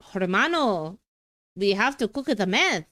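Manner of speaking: hammed-up Mexican accent from a crime drama; attempted Mexican accent. Streamer recalling Breaking Bad lines, mock Mexican accent. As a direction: put on a rough Mexican accent. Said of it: "what accent is this?".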